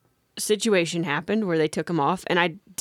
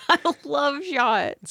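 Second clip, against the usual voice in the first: slow sarcastic drawl; 7 semitones higher, much slower than usual. Retold or imitated. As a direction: say it dripping with sarcasm. Sarcastic about shots.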